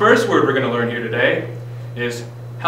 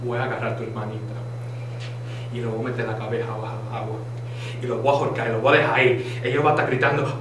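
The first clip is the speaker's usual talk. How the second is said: mock threat; 4 semitones lower, 5 dB quieter, faster than usual. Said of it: "White Claw in Spanish is".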